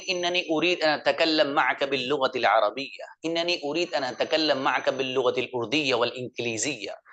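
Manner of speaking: Arabic with proper Arabic sounds and lilt; native Arabic accent. Shown as a demonstration. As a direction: speak it the Arab way, guttural and flowing. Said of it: "इनके मुकाबले में अच्छा लगा होगा". (अरबी लहजे में अरबी)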